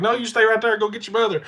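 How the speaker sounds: high, loud command called uphill; retold urgent order. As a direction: re-enact dad hollering instructions to a child. Dad shouting orders up to child.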